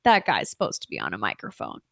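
mock deep DJ voice; mock radio voice. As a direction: drop into a booming-radio-guy impression. Praising his radio voice.

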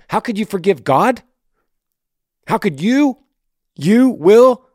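high, rising, excited challenge. Real, not acted. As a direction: press him hard, voice climbing. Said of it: "My voice is getting excited".

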